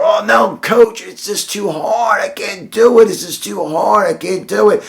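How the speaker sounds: high, strained-effort plea to coach; pleading protest. Retold or imitated. Exhausted player to coach mid-crawl, high yelled plea. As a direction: cry out like a player giving up.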